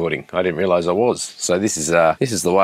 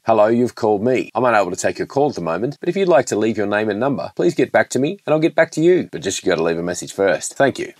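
voicemail greeting. Shown as a demonstration. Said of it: "That's how you do a voiceover".

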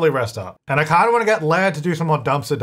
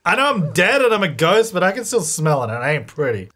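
ghost horse voice; 3 semitones higher than usual. Acted. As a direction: voice the horse, giggling through it. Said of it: "Flame's like".

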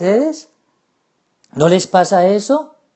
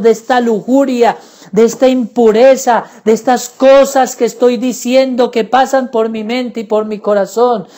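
raised pleading prayer, each plea its own line; fervent prayer. Acted. Preacher voicing a believer's plea: fervent prayer. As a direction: cry out to the Lord, begging for help. Prays aloud to Jesus.

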